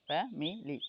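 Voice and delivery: "ফ্যামিলি" in short beats fa, mi, li; syllable by syllable. Shown as a demonstration. Teacher recapping for students, "ফ্যামিলি" split fa-mi-li. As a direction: separate the three parts of "ফ্যামিলি". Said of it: "এইভাবে এই যে".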